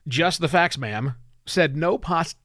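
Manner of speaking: projected, deliberate cold-open delivery; scripted podcast read. Acted. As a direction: read it out as a punchy show intro.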